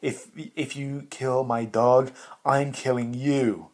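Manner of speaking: mock dog-owner threat. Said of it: "A lot of people are like".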